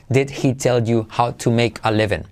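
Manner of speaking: "Did he tell you how to make a leven" each word separate, D of did and H of he both clear; textbook version. Shown as a demonstration. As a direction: read it stiffly word by word. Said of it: "ningún nativo lo dice así". (versión de libro, sin unir palabras)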